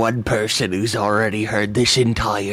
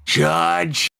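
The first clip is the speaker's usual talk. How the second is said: mock call-out; 7 semitones higher than usual. Calls out the name.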